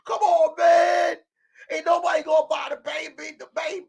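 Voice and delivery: hammed-up pleading protest; whining baby. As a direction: beg like a kid losing his name. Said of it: "He was at home crying. They were like".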